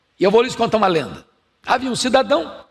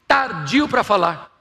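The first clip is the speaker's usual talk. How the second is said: slow; slower than usual. Shown as a demonstration. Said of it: "devagar, quase parando".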